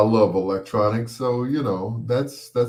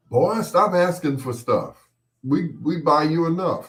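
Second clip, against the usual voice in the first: higher, exasperated scold; scolding parent; 6 semitones higher than usual. Retold or imitated. Parent scolding the boy for begging, mildly exasperated. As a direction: tell the boy off.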